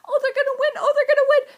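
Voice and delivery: very high, loud, laughing hope; excited laughing cheer. Retold or imitated. Readers cheering that the heroes will win, laughing squeal. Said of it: "They're like".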